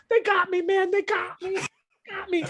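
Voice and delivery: high, fading dying groan; dying guard. Acted. Guard crumpling from a spinal wound, dying whimper. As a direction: gasp it out as he collapses. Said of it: "he kinda crumples".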